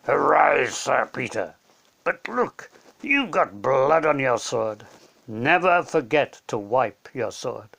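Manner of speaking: slow, formal kingly voice; regal lion. Acted. Aslan knights Peter, slow and regal. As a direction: knight him with slow ceremony.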